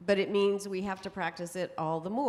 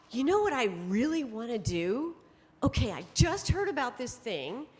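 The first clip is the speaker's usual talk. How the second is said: lightly acted eager husband pitching his idea; excited husband. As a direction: retell his big plan with mild, bubbly excitement. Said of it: "he was all excited".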